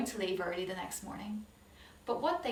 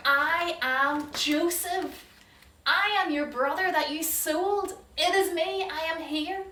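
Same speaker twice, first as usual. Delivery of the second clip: slow, louder, high emotional outpouring; tearful revelation; 7 semitones higher, 7 dB louder, slower than usual. Acted. Joseph revealing himself to his brothers, overcome with emotion. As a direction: break open with feeling.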